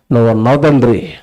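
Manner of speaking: low-pitched, settled address; trusting relief. Acted. Preacher voices the baby speaking to its Father, low trusting tone.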